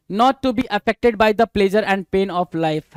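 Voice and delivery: reading the definition out very slowly; drawn out, each word separate; slow dictation. Shown as a demonstration. (बहुत धीमी आवाज़ में परिभाषा पढ़ना)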